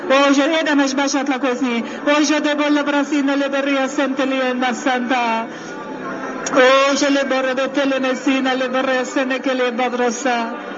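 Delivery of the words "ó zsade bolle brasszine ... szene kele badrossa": rhythmic prayer in tongues; speaking in tongues. Acted. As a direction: pour out flowing tongues prayer. (nyelveken imádkozás)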